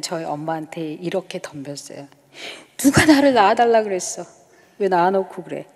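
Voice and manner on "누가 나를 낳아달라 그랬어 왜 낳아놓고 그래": raised, louder voice hurled at mother; mock yell of a defiant girl; retold yelling at mom. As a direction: replay the childhood shout, a bit louder. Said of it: "제가 소리소리 질러서".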